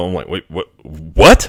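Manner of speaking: plain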